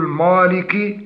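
مالك with a thick, dark m and a; heavy mim. Shown as a demonstration. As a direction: darken the start of مالك, as a mistake. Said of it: "تفخيم الميم". (مالك بتفخيم الميم)

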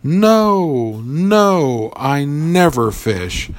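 high, hurried nervous no, no; a frightened little mouse protesting, pitched high; nervous denial. Acted. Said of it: "said the mouse nervously".

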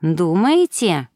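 slow drawled question; drawn out. Acted. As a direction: stretch the word out slowly. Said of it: "протянула Лейла".

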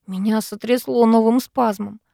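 usual speaking voice

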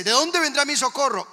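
high, loud fretful outcry; mock worried natural man. Man without faith asks where help comes from, mock alarm. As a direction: blurt it out in acted panic. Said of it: "el natural que dice".

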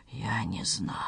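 very low, faint murmur; barely audible. A narrator's reading. Mayor facing his stricken son, barely audible. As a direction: let the voice all but vanish. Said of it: "проговорил мэр едва слышно".

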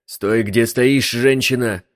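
loud, slow barked command; barking order. A narrator's reading. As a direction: bark her into place. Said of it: "рявкнул на неё лабиринт".

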